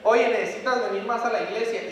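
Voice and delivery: a firm, loud nudge to come to church; loud call. Acted. Preacher voicing a nudge to come to church, a loud call.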